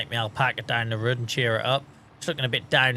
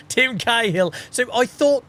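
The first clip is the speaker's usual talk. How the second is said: excited recall; 8 semitones higher, 5 dB louder than usual. Real, not acted. Suddenly remembers.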